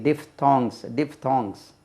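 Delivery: डिफ्थॉन्ग्स spelled out clearly, falling tune; teacher repeating a new word; model pronunciation. Shown as a demonstration. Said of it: "उनको डिफ्थॉन्ग्स कहते हैं".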